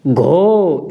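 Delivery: घो said as breathy "gho"; teacher sounding out "घो"; gha with o matra. Shown as a demonstration. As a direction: model "घो" clearly. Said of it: "और घ पे लगा दी तो".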